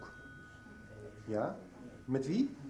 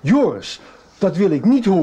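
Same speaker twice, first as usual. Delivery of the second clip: raised, stern voice telling the son off; stern scolding; 3 semitones higher, 7 dB louder than usual. Acted. Father scolds his son Joris, louder and stern. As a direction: shut the boy down firmly.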